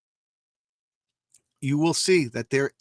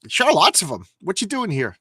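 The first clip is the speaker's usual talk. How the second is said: eager guard; 4 semitones higher, 3 dB louder than usual. Acted. Guard voice again.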